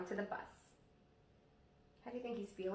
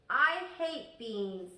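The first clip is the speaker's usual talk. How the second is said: stubborn little sister; 5 dB louder, much slower than usual. Acted. Little sister refusing food.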